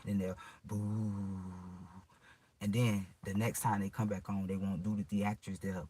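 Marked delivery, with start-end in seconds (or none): 0.6-1.5 imitated intercom noise.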